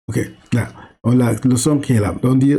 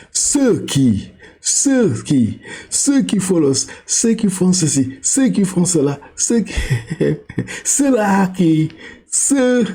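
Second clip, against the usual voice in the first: "ceux qui" said higher and higher, teasing; rising playful repetition; 6 semitones higher, slower than usual. Shown as a demonstration. Teacher playfully repeating "ceux qui" to a child, higher each time.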